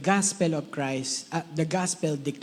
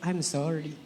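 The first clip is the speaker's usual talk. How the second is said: soft apology; 5 dB quieter, slower than usual. Shown as a demonstration. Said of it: "say to your left".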